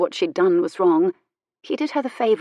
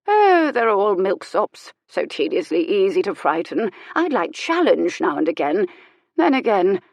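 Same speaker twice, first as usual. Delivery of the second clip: bored disdain. Acted. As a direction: sigh over how dull they are. Old lady complaining of milksops.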